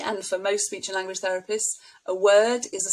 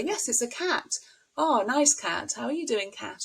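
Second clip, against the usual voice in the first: put-on higher, lilting praise for a toddler; lightly voiced happy parent talking to a small child; encouraging praise; 4 semitones higher than usual. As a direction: delight in the child's word and say it back. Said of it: "We would say".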